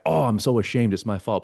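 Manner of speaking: hammed-up guilt and shame; mock ashamed. Blaming self from a shame place, mock ashamed. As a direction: moan it as a put-on confession. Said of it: "Not from a guilt and shame place".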